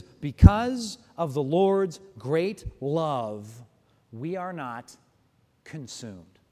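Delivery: slow loud build then drop to near silence on consumed; slow, weighty reading. Shown as a demonstration. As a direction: let the verse land heavily, fading to a hush. Scripture read with dramatic weight.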